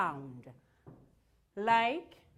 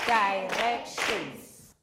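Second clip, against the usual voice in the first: Directions said slowly, syllable by syllable; clapped syllables; 3 semitones lower, 3 dB louder, much slower than usual. Shown as a demonstration. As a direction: break Directions into its syllables, evenly. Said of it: "clap syllables for directions".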